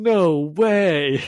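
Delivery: put-on high, happy, dazed, stoned-sounding dude voice. Retelling a comic character's line as a Keanu Reeves impression. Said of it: "Keanu Reeves impression".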